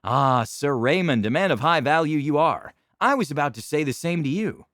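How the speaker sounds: oily mock courtesy; hammed-up aristocrat; pompous noble. Noble returns the boast.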